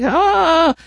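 high, drawn-out retold holler; imitated holler. Caregiver mimicking the patient's sudden hollering, imitated holler. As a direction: imitate his cry, high but not full volume. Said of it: "he started screaming and hollering like".

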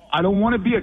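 protest, getting worked up; upset. Real, not acted. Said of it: "why are you getting so upset?".

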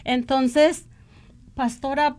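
ordinary talk, nothing marked

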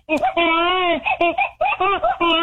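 mock baby cry. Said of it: "You want me to cry like a baby?".

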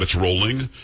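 Rowling said like "rolling"; correct pronunciation. Shown as a demonstration. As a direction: say Rowling with a long O, as in row. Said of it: "because she says Rowling".

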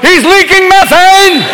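high, slow alarmed dog voice; talking dog. Acted. Dog warning the family, in a slow squeaky alarm. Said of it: "even the dog's going".

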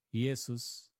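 "Jesús" said as ye-sus, opening on a y sound; older pronunciation. Shown as a demonstration. Preacher tracing the name's history, "Jesús" pronounced Iesus. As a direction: say "Jesús" as Iesus, without the Spanish j. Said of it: "la pronunciación ha cambiado".

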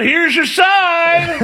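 high, drawn-out catchphrase holler; mock shout. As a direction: call it out in a playful high yell, stretching SIGN. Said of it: "You should have shouted out".

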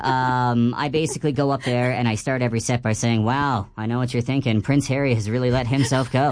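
squeaky helium-balloon voice. Real, not acted. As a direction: talk after inhaling helium. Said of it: "helium balloon break".

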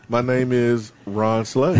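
slow, chuckling through it; laughing. Real, not acted. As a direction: laugh out the name. Laughs while correcting host.

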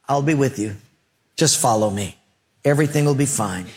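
lightly voiced calm reassurance; God. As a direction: gently settle a worried follower. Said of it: "And God said".

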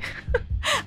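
soft, high giggle; short stifled titter; amused laugh. Real, not acted. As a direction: giggle quietly at the prank. Laughs at listener's prank story.

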